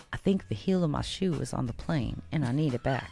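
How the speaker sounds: hushed and half-laughing; quiet plea to a flight attendant; under her breath. Retold or imitated. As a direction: keep it down, embarrassed, as people listen nearby. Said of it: "trying to keep it under my breath".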